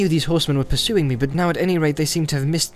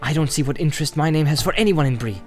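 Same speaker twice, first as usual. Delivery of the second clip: higher-pitched indignant hobbit; angry; 5 semitones higher, 3 dB louder than usual. A narrator's reading. Frodo objecting to Strider's interest in his name, angry. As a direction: protest with raised pitch. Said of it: "said Frodo angrily".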